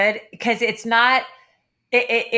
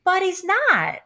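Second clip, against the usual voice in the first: emphatic retort; 8 semitones higher than usual. Retold or imitated. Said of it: "And I'm like".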